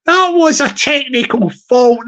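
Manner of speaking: apology through leftover giggles; still laughing. Real, not acted. To the viewers after corpsing, still giggling. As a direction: try to recover but keep laughing.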